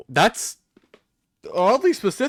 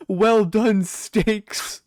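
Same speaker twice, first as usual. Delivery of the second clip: savoring; 5 semitones higher, much slower than usual. Acted. Savouring the imagined steaks.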